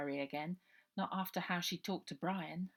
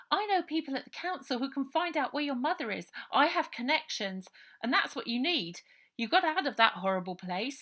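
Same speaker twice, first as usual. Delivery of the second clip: put-on higher, louder girl selling her plan; girl Ida pleading; 6 semitones higher, 9 dB louder than usual. Ida coaxing Robert to help her get in, high girl voice.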